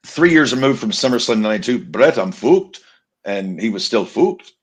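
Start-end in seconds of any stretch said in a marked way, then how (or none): 1.8-2.8 slow, rough attempt at a Manchester accent. Wrestling fan quoting British Bulldog, attempted Manchester accent. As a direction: have a shaky go at Manchester. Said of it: "you cannot do a Manchester accent".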